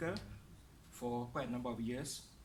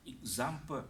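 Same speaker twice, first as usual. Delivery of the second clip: "example" as ig-ZAM-ple; second-syllable stress; 3 semitones lower than usual. Shown as a demonstration. Teacher showing word stress, second-syllable stress. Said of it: "Stress on the second syllable".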